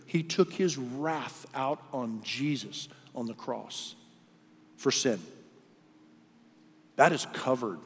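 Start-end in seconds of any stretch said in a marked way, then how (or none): 0.1-5.2 slow, weighty restatement. Shown as a demonstration. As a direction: repeat it slowly for weight. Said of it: "Read the Scripture".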